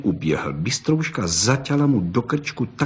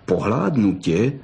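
growled threat; 3 semitones lower than usual. Acted. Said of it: "zavrčela bystrouška".

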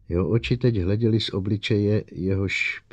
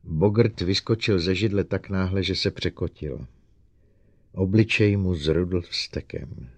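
ordinary delivery, nothing marked

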